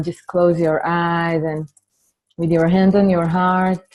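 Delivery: measured opening blessing, leaving space to breathe; guided meditation. Real, not acted. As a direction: gently guide the group inward, unhurried. Leads an opening meditation and dedication.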